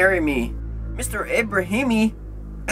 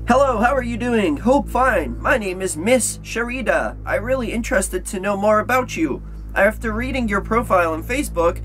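higher, sweet-sounding voice; reading in disbelief; 6 semitones higher than usual. Acted. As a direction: read it like a coy admirer. Reads flirty scam email.

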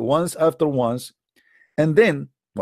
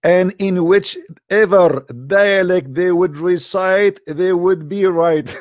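very slow, higher and louder, drawn out; mock angelic decree; 4 semitones higher, 4 dB louder, slower than usual. Speaker mocking the final revelation to Muhammad, slow and lofty. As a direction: stretch each word like a grand revelation. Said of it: "Look what he said at the end".

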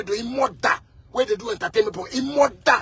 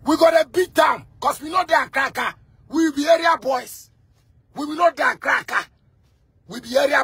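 put-on area boy threat; 5 semitones higher than usual. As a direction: shout it like a rowdy area boy. Voicing area boys' threat.

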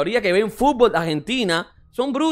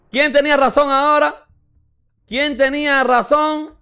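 gloating; 5 semitones higher than usual. Real, not acted. Gloating after being proven right.

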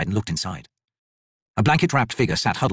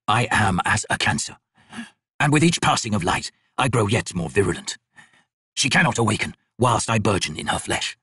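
lightly voiced figure. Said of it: "the figure said".

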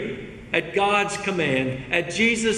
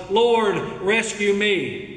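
slightly raised, drawn-out plea; mild acted yell; 3 semitones higher, slower than usual. Sinking Peter crying out to the Lord, mild yell. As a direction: call out for rescue, stretching the words. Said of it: "we need to yell out".

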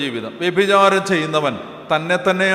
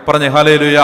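loud call for response; 8 dB louder than usual. Real, not acted. Preacher calls congregation response.

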